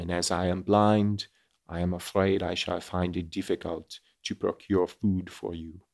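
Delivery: lightly voiced old man with a French accent; subtle French accent. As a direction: keep the French accent understated and gentle. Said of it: "a little more subtle than the Pepe Le Pew".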